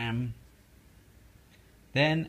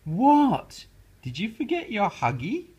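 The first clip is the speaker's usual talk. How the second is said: put-on much higher, louder child frog; high Froggy voice; 9 semitones higher, 8 dB louder than usual. Froggy answering his mother, high squeak. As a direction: squeak back to mom.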